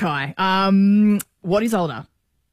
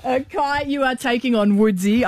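put-on Canadian accent; 3 semitones higher than usual. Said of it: "that's my Canadian accent".

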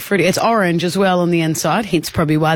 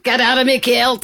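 put-on Scottish accent; 4 semitones higher than usual. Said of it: "doing Scottish accents before".

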